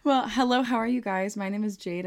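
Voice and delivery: host greeting. Shown as a demonstration. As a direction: greet the listeners properly. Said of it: "Try that, maybe".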